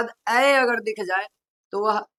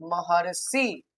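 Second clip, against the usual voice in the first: slow demo; 5 semitones lower, 7 dB quieter, slower than usual. Shown as a demonstration. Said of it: "कैसे लिखेंगे".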